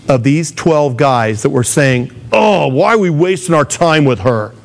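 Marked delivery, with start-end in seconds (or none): 2.3-4.5 mock complaint. Disciples grumbling about a persistent woman, mock exasperation. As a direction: lightly imitate impatient grumbling.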